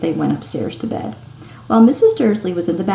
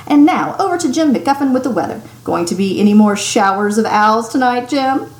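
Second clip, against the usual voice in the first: upbeat TV anchor handover; cheery newscaster; 3 semitones higher, 4 dB louder than usual. Acted. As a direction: toss to the weatherman brightly. Newscaster hands over to weatherman.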